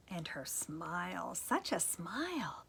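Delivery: dreamy admiration. Acted. Prince's dreamy thought.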